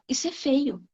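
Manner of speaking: dito mais baixo, sem alarde; fala contida. Retold or imitated. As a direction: comenta discretamente, em volume baixo. Fala contida, antes de repetir afirmando. (em tom baixo e contido)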